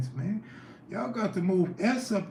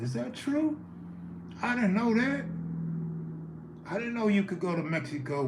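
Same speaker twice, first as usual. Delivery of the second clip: surprised; 7 semitones higher, 3 dB quieter than usual. Real, not acted. Surprised at Mexico news.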